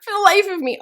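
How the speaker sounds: high laughing exasperation; exasperated laugh. Real, not acted. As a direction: laugh at your own fumble. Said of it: "I cannot say interconnected".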